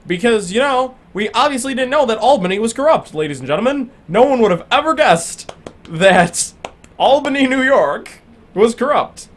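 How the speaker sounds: mock-surprised sarcasm; sarcastic. Real, not acted. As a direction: fake disbelief about corruption. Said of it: "I'm being sarcastic".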